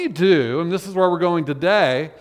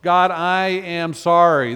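earnest prayer; slower than usual. Acted. Prayer voiced slowly.

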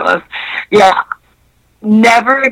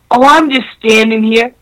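sleazy guy's line; 3 semitones higher, slower than usual. Retold or imitated. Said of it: "And he goes".

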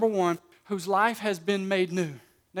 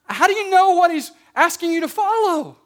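raised, driving preacher's delivery; emphatic preaching; 6 semitones higher, 6 dB louder than usual. Real, not acted. Preacher urging congregation to show evidence of being saved, emphatic. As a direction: preach it with energy and punched key words.

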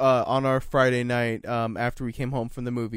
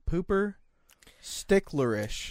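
put-on slow drunk slur; 5 semitones higher, much slower than usual. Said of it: "it came out pooper sticklerish".

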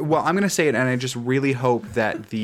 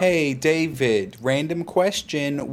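slow deliberate; slower than usual. Pretend. Mock-serious slow opener.

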